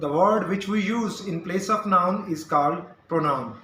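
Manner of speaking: each word laid out slowly, like dictating to a class; slow dictation. Shown as a demonstration. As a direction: spell out the definition slowly for students to copy. Teacher repeats the definition. (धीमी, श्रुतलेख जैसी आवाज़ में परिभाषा)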